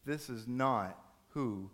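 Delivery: slow, word-by-word reassurance; calmly insist, spacing out each word; firm, tender parent. Acted. Parent gently insists to upset son.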